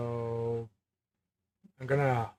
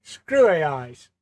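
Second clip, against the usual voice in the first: louder and slow, a mock curse; mock outrage; 2 semitones higher, 10 dB louder, slower than usual. Real, not acted. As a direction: spit it out slowly at the AI.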